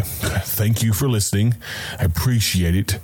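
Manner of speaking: mildly exasperated thanks; a touch of exasperation. Shown as a demonstration. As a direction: sound fed up while saying thanks.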